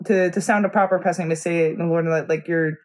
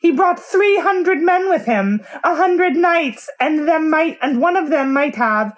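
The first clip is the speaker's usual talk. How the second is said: high, loud hammy ranting; loud slapstick yelps; 8 semitones higher, 4 dB louder than usual. Acted. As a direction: yelp every line like a slapstick clown. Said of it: "getting the clown voice".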